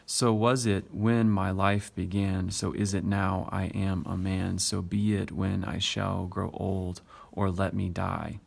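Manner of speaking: "So was it when my life began" onward in an even short-long beat; steady iambic reading. Shown as a demonstration. Teacher reading the poem's rhythm aloud, "So was it when my life began" in a steady iambic beat. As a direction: read measured, keeping the unstressed-stressed pulse through to "or let me die". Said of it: "Notice how it continues on throughout".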